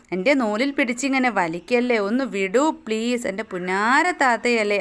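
coaxing plea, stretched on വിടൂ; pleading. Acted. Kite begs Abida to let go of the string, mild pleading. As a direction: wheedle a big sister. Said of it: "അവൻ കെഞ്ചി".

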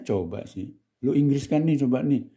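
normal talking voice

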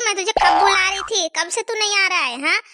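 a hint of a nagging mom yelling for Bhajji; mother scolding. Mother calls son who ignores her, mock scolding.

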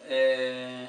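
bottle held before face; speaking with face down; reading a bottle label. Real, not acted. Seen 0: Bottle held close before face reading label, not drinking.

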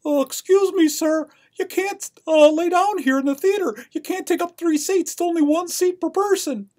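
very high-pitched, loud usher voice; comic high-voiced theater usher telling someone off; fussy usher. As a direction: put on a squeaky, loud usher scolding a patron. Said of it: "The usher looks at him and says".

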